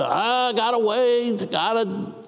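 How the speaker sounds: put-on slow, whiny kid voice; sulky kid. Boy telling friends he must wait, whiny and slow.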